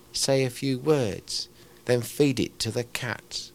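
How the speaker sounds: slow, emphatic verse recitation; ranting poem recital. Acted. Poet performs another ranter's poem, slow comic recital. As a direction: recite the comic poem slowly, hitting the rhymes. It's called Minor Bird.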